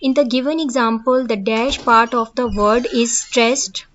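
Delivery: reading the definition word by word, slowly; slow dictation. Acted. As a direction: dictate it slowly so students can copy. Reads question slowly. (धीमे-धीमे लिखवाते हुए पढ़ना)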